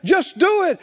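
fiery preaching. Acted. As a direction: drive the congregation to act. Preaching at full force.

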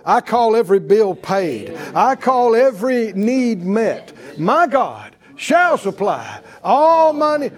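firm declaration of faith, building in force; declaring. Acted. Preacher showing believers how to face their bills, declaring. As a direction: proclaim it over the pile of bills. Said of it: "you declare it".

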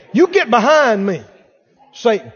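loud commanding rebuke; a loud preacher's rebuke of the devil; stern rebuke. Retold or imitated. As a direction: order Satan away, forcefully. Jesus quoted rebuking Satan.

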